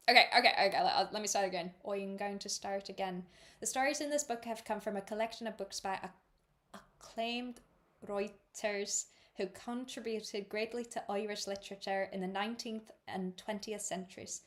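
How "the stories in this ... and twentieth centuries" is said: careful, amateur Irish reading voice; attempted Irish accent. Shown as a demonstration. Reader starting the note on names over, tentative Irish accent. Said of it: "read that page in my best Irish attempt".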